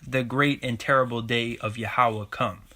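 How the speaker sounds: drawn-out, weighty preacher's quote; emphatic scripture quoting. Acted. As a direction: stretch out the first word and let it ring.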